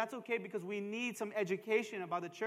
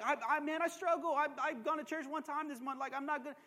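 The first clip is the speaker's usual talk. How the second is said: lightly voiced struggling churchgoer, a little higher; hesitant excuse-maker; 3 semitones higher, 4 dB quieter, faster than usual. Pastor imitating an intimidated churchgoer, mild hesitant excuses. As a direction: imitate someone stammering out excuses.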